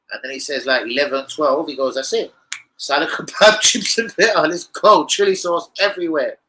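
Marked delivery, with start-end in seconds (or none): 1.9-6.4 lightly voiced kebab man, louder, higher; shop owner's order. Kebab shop owner recalling the regular's order, mock gusto.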